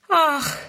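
high, falling "Ach"; exclaimed sigh. A narrator's reading. Friedrun reacts to the visitors, sighing. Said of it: "seufzt Friedrun".

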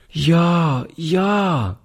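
put-on delighted child cries yes; lightly voiced happy little girl; little girl's eager cry. A narrator's reading. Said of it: "rief die Kleine".

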